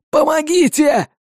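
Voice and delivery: high, pained, tearful plea; desperate cry for help. Acted. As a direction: beg for rescue through tears. Trapped man cries for help.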